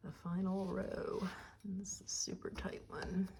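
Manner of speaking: tense, breath held, whispering; holding breath. Real, not acted. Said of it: "I'm holding my breath".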